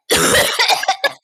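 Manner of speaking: choking cough; coughing up water. Real, not acted. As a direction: hack on swallowed water. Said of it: "It's the water".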